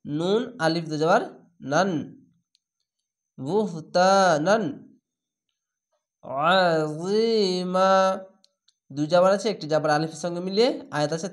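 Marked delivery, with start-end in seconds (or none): 3.4-4.6 বুহতানান recited slowly, ending নান without a nasal hold; no ghunnah on নান of বুহতানান; slow recited word. Shown as a demonstration. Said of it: "দ্রুত পড়তে হবে". 6.5-7.9 আজিমা very slow, stretching the final মা one alif and stopping; stop with alif stretch. Shown as a demonstration. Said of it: "এক আলিফ টেনে থেমে যাবেন".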